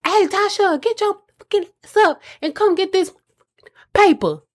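hammed-up angry mom hollering across the house; mock yelling at daughter. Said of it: "If I'm yelling at her like".

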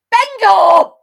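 full-throated high shout; a bingo winner shouting to the hall, loud and high; yelled bingo. Acted. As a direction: belt it out to the whole hall. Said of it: "yell bingo".

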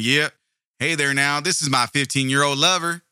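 lightly put-on Southern backwoods accent; mock a backwoods Southerner with a slight twang; improvised Southern accent. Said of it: "gonna go with the Southern accent from the backwoods".

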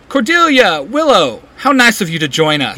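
mock-posh British accent, high on the names. A narrator's reading. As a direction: greet them like a British librarian. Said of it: "in his best British accent".

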